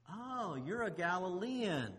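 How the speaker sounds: slow, drawn-out dawning realization; knowing recognition. Acted. Bystanders placing Peter by his voice, knowing recognition. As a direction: act out slowly catching on.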